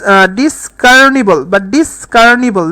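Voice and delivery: ডিসকার্নিবল drawn out slowly twice; slow spelled-out pronunciation. Shown as a demonstration. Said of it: "next আসে এখান থেকে ডিস".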